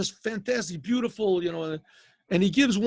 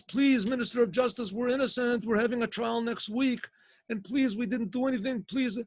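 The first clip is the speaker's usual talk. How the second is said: pleading; 5 semitones higher than usual. Retold or imitated. Brothers begging the minister of justice to spare them, high pleading voice. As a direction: beg him to believe you are innocent.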